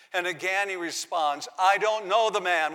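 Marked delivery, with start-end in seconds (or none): 1.6-2.7 firm, louder sworn denial; denial with an oath. Retold or imitated. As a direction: swear it out firmly. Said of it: "with an oath".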